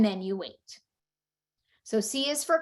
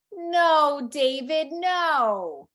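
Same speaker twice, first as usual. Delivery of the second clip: drawn-out, higher storybook "no"; picture-book reprimand, pitched up; scolding read-aloud; 4 semitones higher, much slower than usual. Acted. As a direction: read it as a mom's mild mock scolding. Mom reads book text aloud.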